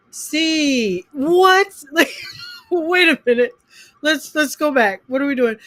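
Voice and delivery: mock confused kid asking to go back; baffled student. Teacher imitating lost students. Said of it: "students lost".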